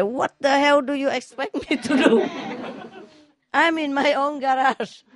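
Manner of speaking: can't keep it straight, cracking up; laughing punchline. Acted. Man in his garage answering the drunk, laughing through it.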